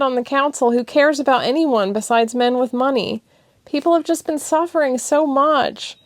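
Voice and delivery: tearful and defensive; upset girlfriend pouring it out; emotional. Acted. Thessia emotional speech.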